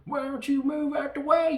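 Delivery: high, loud redneck yell; hammed-up redneck holler. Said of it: "and the redneck".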